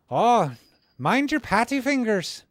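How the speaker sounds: mock Northern Irish accent. Teasing a viewer about Belfast in a mock Northern Irish accent. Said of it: "I'm no good at doing accents".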